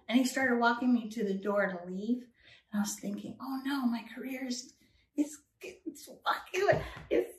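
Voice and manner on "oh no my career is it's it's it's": panicked thought. Retold or imitated. Panicked inner thought at door.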